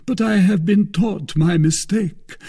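theatrical mournful disappointment; a touch of wounded gloom; melancholy. A narrator's reading. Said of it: "resuming his melancholy air".

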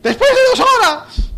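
slow, very high screech; mock outraged shout. Answering the late arrival, drawn-out high mock scream. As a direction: stretch it out in shrieking indignation. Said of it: "¿qué son esos gritos?".

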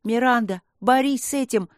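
громко и выше, зовя подругу; прокричать, пробиваясь к подруге; крик. Acted. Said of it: "прокричал Майкл". (мальчик кричит одержимой подруге, громко)

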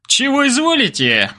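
high, mock servile reply; playing along as servant. A narrator's reading. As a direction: ham up an eager lackey. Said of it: "подыграл балалай".

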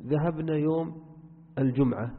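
الجمعة with the mim closed straight onto the 'ayn; silent mim in الجمعة. Shown as a demonstration. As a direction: say الجمعة as al-jum'a, no vowel after the mim. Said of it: "بتسكين الميم". (الجمعة بتسكين الميم)

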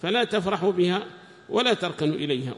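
ordinary talk, nothing marked

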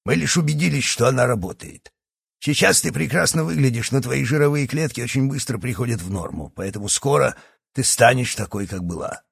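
doctor. Acted. Doctor gloating at Yana.

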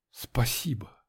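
hushed, whispered thanks. A narrator's reading. Narrator whispers his thanks to Алёна, whispered. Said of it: "прошептал я".

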